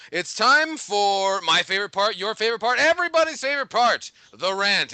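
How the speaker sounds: a hint of a host climbing to the rant; show host buildup. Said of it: "building show announcement".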